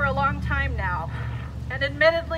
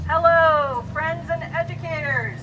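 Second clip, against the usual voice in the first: calling out; 6 dB louder than usual. Real, not acted. Greeting the crowd, calling out.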